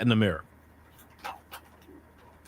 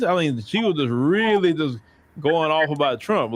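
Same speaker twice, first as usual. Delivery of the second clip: ordinary talk, nothing marked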